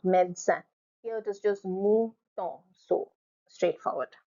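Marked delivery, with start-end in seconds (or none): 0.0-0.6 médecin as two syllables, med-sin; French médecin said as med-sin; silent second E. Shown as a demonstration. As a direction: drop the middle E in médecin. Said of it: "The second E is silent".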